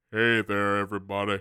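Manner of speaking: deep, low chest voice like a grown-up. Imagining the alligator boy Arlo talking for the first time: deep Arlo voice. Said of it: "imagine if he had a deep voice".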